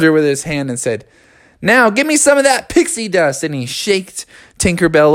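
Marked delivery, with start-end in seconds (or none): 1.6-3.4 raised, insistent cartoon voice; demanding frog. Froggy holding Tinkerbell in his hand, raised demanding voice. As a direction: demand it in a higher voice.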